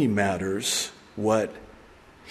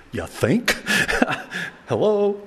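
sarcastic; 7 semitones higher, slower than usual. Real, not acted. Preacher mocks Peter's late realization.

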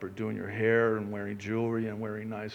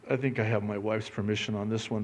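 usual speaking voice

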